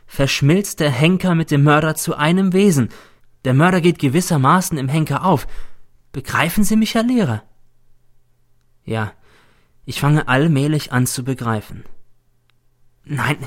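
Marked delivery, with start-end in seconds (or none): 0.1-7.4 lightly voiced pupil, higher and pressing; insistent pupil. Pupil explains his theory to the teacher, insistent. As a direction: press the point on your teacher, pitched up.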